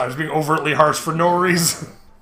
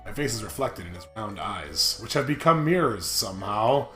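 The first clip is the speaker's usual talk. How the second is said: story narration; 4 semitones lower, 5 dB quieter than usual. Acted. Reads game narration aloud.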